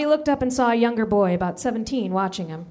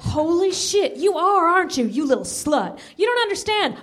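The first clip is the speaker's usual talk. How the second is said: jealous outburst; 8 semitones higher than usual. Acted.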